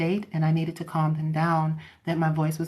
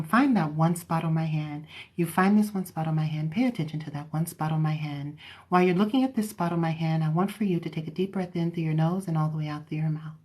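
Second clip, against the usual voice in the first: modulated therapeutic voice; 3 dB quieter than usual. Shown as a demonstration. Hypnotherapist guiding a client to focus on the hand, therapeutic voice. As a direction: guide them evenly into focus. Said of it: "I modulate my voice".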